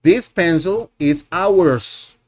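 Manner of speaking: slow, clear teacher model; slow classroom model sentence. Shown as a demonstration. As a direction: say it slowly so learners can follow. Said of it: "Este es nuestro lápiz".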